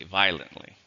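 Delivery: "violently" in three syllables, VYE-lent-ly; quick three-syllable pronunciation. Shown as a demonstration. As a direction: run "violently" together, dropping the o. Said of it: "three if you say it quickly".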